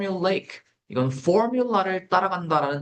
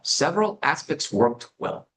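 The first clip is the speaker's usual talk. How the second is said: slow model sentence; much slower than usual. Shown as a demonstration. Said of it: "요런 문장 구성이에요".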